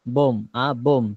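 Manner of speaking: বোম, আ বোম with no b sound at the end; silent final b. Shown as a demonstration. Teacher correcting students' bomb, final b silent. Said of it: "শেষে বি এর উচ্চারণ হবে না".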